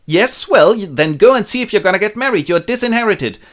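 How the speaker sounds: king ranting as he disinherits his daughter; furious king. Acted. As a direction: cast her out in a fit. Lear disinherits Cordelia.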